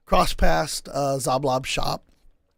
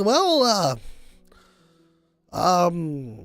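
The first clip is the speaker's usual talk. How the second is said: tipsy Volo; 3 semitones higher than usual. Acted. DM voicing stumbling Volo.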